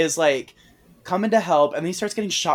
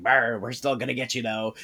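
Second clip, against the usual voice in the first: gingerbread creatures; 3 dB quieter than usual. Retold or imitated. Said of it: "They're like".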